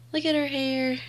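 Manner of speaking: soft laughing half-crying; laugh-cry softly over her hair; tearful laugh. Real, not acted. Overcome with delight at the hair.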